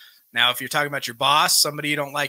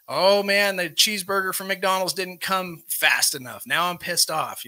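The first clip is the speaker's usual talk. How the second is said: higher-pitched mock exasperated complaint; acted impatience; 5 semitones higher than usual. Speaker voicing a customer whose burger came late, acted impatience. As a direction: play up being annoyed by a delay. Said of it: "anything of impatience".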